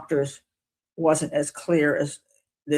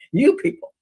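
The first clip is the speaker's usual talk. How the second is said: higher, louder indignant jab at the jury; mock outrage, pitched up and loud; angry lawyer; 12 semitones higher, 5 dB louder than usual. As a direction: imitate a furious attorney scolding. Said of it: "he continues with his anger".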